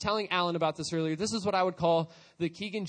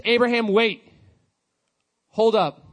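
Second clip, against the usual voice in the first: angel calling out; 3 semitones higher, 9 dB louder than usual. Retold or imitated. Angel stops Abraham's knife.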